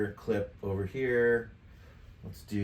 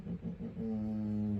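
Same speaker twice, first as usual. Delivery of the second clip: idle humming; 5 dB quieter, much slower than usual. Real, not acted. Browsing the effects list, idle humming. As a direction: hum absently, softly, slowly.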